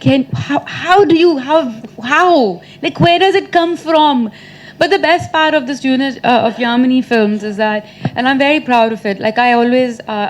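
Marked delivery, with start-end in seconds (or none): 0.0-4.3 baffled, drawn-out how; marvelling, stretched-out question; amazed mock reaction. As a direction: play up the astonishment, a little higher. Acts out her amazed reaction.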